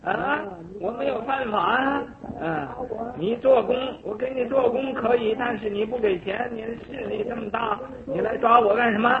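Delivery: high-pitched panicked protest, voice up; frightened outcry. Retold or imitated. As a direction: cry out in terror that you're innocent. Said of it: "就大叫起来". (惊慌地高声大叫)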